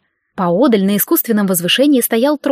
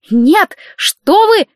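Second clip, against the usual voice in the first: slow, panicked cry, much higher and louder; shouting; 10 semitones higher, 6 dB louder, much slower than usual. A narrator's reading. Elena screams as the wish is granted, panicked. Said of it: "закричала Елена".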